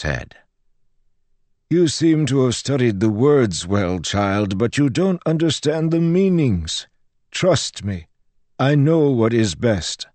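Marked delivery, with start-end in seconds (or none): 1.7-10.1 higher-pitched, lecturing priest; patronizing priest. Acted. Sighing priest tells the child to trust him, patronizing. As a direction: correct the child as one who knows best.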